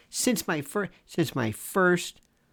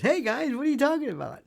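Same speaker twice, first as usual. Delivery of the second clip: quoted manager; 10 semitones higher, faster than usual. Retold or imitated. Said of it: "he goes".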